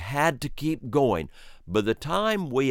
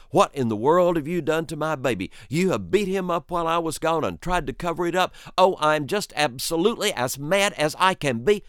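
mad mother; 6 semitones higher, faster than usual. Retold or imitated. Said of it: "You should have heard her".

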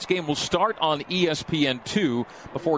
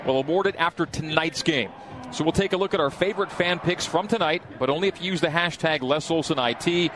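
ad read; 2 semitones higher than usual. Acted. Reads sponsor promo on air.

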